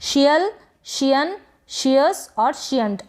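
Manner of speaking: slow शियल, शियन, शियस, शियंट, opening each on "sh"; practice drill. Shown as a demonstration. Teacher repeats the endings for practice, slow drill. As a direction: space out each ending for repetition. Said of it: "इस तरीके से".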